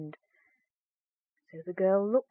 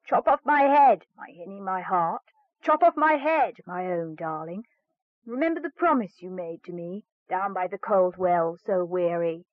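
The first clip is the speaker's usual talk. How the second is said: frog's plea; 3 dB louder than usual. Acted. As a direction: beg her like a spellbound frog. Frog begs beheading.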